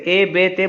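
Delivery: ए बे ते with "ay" endings; majhool vowels. Shown as a demonstration. Teacher giving pupils wrong examples, ए बे ते as majhool "ay". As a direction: say ए बे ते with "ay" where "ee" belongs. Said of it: "मजहूल हो जाएगा".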